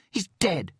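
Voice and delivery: spat out. Acted. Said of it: "she spat out".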